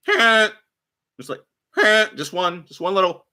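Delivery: giggling as he tells it; laughing through it. Real, not acted. Driver laughing about one little honk, giggling.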